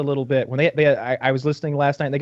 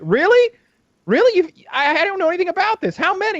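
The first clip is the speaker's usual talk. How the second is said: much higher, fake-astonished hosts teasing; mock amazed host; 3 dB louder than usual. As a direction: feign total surprise to mock him. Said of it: "they'll be like".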